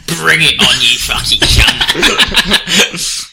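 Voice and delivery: loud, slow snarling challenge; aggressive challenge. Acted. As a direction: hurl it like a sudden fight challenge. Mock aggressive battle challenge.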